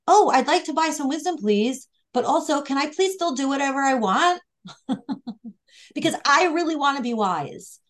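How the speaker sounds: a hint of a wheedling fool asking for a bargain; naive fool. Teacher voicing the foolish student begging for wisdom, mildly mock-pleading. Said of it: "and he's saying".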